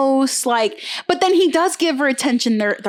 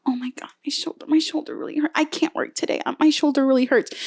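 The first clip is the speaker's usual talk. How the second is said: soft, pitiful faked hurt; milk a fake injury, hushed and pathetic; imitating a coworker overplaying a sore shoulder; mock whiny fake pain; 3 semitones higher, 4 dB quieter, faster than usual. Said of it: "she fucking milks that shit".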